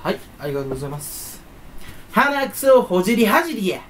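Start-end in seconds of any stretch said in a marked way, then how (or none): 2.1-3.8 自信満々. Pretend. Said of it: "言い方も超自信満々に言うし".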